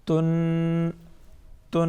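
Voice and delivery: تن with a light, thin t; chanted تن, unemphatic t and long n. Shown as a demonstration. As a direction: hold تن on one note, the t kept light. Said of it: "طا کی نسبت جو ہے باریک ہے".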